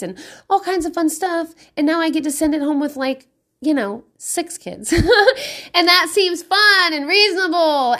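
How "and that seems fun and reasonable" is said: laughing. Real, not acted. Laughing over small party.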